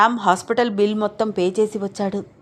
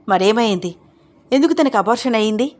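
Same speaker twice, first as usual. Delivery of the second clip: louder, pushing question; angry demand; 2 semitones higher, 4 dB louder than usual. Acted. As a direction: demand an answer angrily. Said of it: "కోపంగా అంది అన్నపూర్ణమ్మ".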